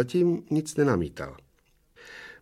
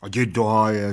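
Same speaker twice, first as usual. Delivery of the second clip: annoyed. Acted. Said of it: "řekl otráveně obr".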